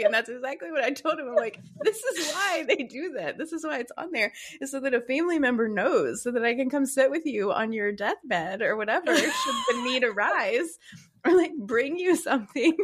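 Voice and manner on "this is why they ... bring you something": high, laughing through the words; laughing explanation. Retold or imitated. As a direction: explain it while cracking up. Explaining to husband while laughing.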